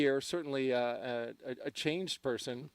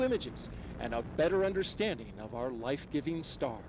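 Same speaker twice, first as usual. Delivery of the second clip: hushed space launch commentary; 3 semitones higher than usual. Real, not acted.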